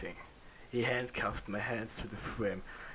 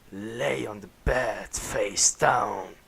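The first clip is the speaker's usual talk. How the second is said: low growl; 5 dB louder, much slower than usual. Acted. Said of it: "he said in a low growl".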